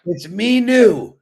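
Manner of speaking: firm mee-noo for Minu; how she says it. Shown as a demonstration. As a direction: push "Minu" out, long ee then noo. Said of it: "That's how you say it".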